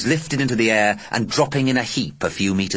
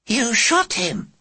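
captain voice; much slower than usual. Acted.

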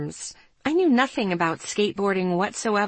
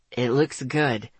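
lower-pitched male character voice; young man's voice; 7 semitones lower, slower than usual. A narrator's reading. Boy explaining why he waited, in a low male voice. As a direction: drop the voice to play the boy.

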